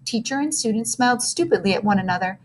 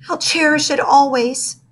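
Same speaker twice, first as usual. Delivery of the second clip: sighing; 6 semitones higher, 4 dB louder than usual. Acted. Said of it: "she sighed".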